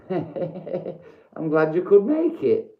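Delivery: slow, high put-on voice with a laugh; hammed-up slow sinister greeting; mock villain welcome. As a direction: welcome him like a gloating villain. Theatrical greeting to a viewer.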